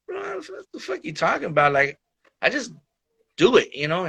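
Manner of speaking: mock-baffled, brushing off the praise; incredulous.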